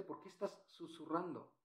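very soft, nearly whispered question; hushed demo. Shown as a demonstration. Teacher shows the class what whispering sounds like, hushed. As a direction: drop to a hush as if whispering. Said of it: "¿Ya viste?".

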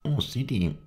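high, proud exclamation. A narrator's reading. Halef answers his master's praise, proud. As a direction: open high with self-satisfaction. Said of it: "meinte er stolz".

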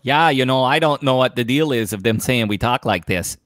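mock Minnesota-Wisconsin accent with long vowels. Co-host likening her to an offended Midwesterner, Minnesota accent. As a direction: put on an Upper Midwest lilt. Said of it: "sounds like the person from Minnesota and Wisconsin".

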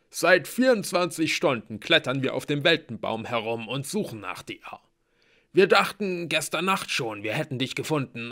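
loud dwarf voice; gruff dwarf voice. Acted. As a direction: voice the dwarf, emphatic. Blitz explains, voiced figure.

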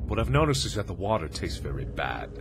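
measured reading in the writer's voice; in-character note reading. Acted. Trapped villager writing to whoever reads this, in-character reading. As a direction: read a survivor's last note in character.

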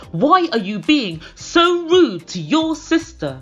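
loud, high, drawn-out mock screech. Tom scolding Darcy over her sister, screeching. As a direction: screech each phrase in shrill outrage. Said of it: "he suddenly screeches".

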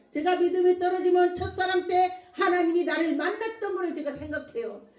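emphatic sermon delivery; preaching. Real, not acted. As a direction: press the point to a congregation. Preaches with raised voice.

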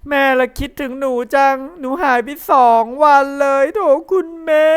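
put-on missed her boy and is glad; lightly voiced mother. Mother greeting Gen back home, lightly voiced relieved. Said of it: "แม่เลย".

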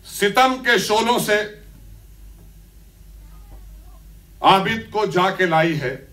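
declaimed Urdu couplet; poem recitation. Acted. Poet presenting chosen lines to the gathering, declaimed recitation.

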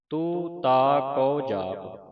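ਤੂੰ ਤਾ ਕਉ ਜਾਪ said slowly, each word apart; separate words. Shown as a demonstration. Teacher shows students to say each word separately. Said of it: "ਵੱਖਰਾ ਵੱਖਰਾ".

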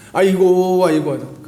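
mock mourner's drawn-out keen; imitated funeral wailing. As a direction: lightly act out a ritual wail for show. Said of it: "초상집에 가보면 옛날에는". (초상집 곡소리를 가볍게 흉내 내듯)

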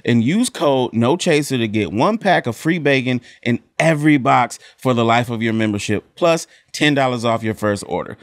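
upbeat sponsor read; lively ad read voice. Acted. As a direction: sell it like a podcast ad. Ad read with code.

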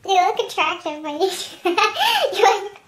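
teasing through giggles; laughing. Real, not acted. Friend teases, laughing.

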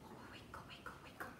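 put-on whispered wiggle wiggle to the kids; playful whisper. Shown as a demonstration. Storyteller whispers to children during the wiggle warm-up. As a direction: hush it right down to a breathy whisper. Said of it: "can you have a big wiggle?".

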